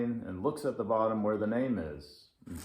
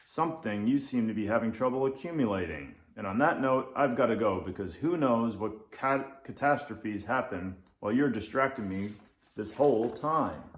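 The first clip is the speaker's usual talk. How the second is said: louder, fast dismissive lynx; grumpy lynx; 4 dB louder, faster than usual. Acted. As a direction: brush the kid off, grumpy. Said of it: "says the Grumpy Lynx".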